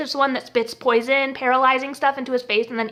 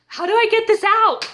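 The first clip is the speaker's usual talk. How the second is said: high, helpless whine; exaggerated high-pitched floundering; mock helpless; 6 semitones higher than usual. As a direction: play clueless and stuck, pitched well up. Retold helpless floundering with the box.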